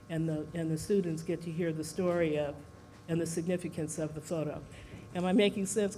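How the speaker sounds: breathless, catching breath. Real, not acted. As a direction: talk while winded. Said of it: "'Cause I'm still out of breath".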